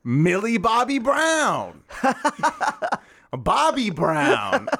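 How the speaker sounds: laughing through the names; can't hold the bit, cracking up. Real, not acted.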